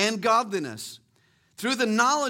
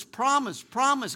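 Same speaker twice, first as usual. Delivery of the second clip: promise, promise said higher, each with a firm falling stress; emphasized word; 4 semitones higher, slower than usual. Shown as a demonstration. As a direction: hammer the word promise twice. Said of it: "he's emphasizing the word promise".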